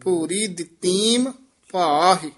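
ਦਿੱਤੀਮ stretched long; drawn-out ਦਿੱਤੀਮ. Shown as a demonstration. Teacher showing the student a long ਦਿੱਤੀਮ. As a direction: draw out ਦਿੱਤੀਮ. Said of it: "ਲਮਕਾ ਕੇ ਬੋਲਣਾ ਹੈ".

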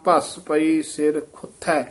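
ਖੁੱਥੈ said slowly with aspirated th; careful ਖੁੱਥੈ. Shown as a demonstration. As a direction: slowly, land on ਖੁੱਥੈ clearly. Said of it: "ਖੁੱਥੈ ਉਚਾਰਨ ਕਰਨਾ". (ਖੁੱਥੈ ਦਾ ਸਾਫ਼ ਉਚਾਰਨ)

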